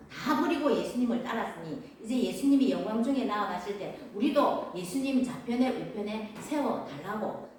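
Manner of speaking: mildly insistent, emphatic claim; confident demand. Acted. Disciples asking for seats, confident demand. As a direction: state it boldly as something owed. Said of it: "당당하게 말을 합니다".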